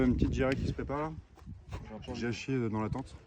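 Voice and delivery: quiet, queasy voice; feeling sick. Pretend. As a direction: talk like you're about to throw up. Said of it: "Je vais, je vais vomir".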